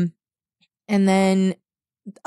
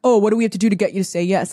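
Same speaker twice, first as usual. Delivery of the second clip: mock pushy pitch; much faster than usual. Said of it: "they were like".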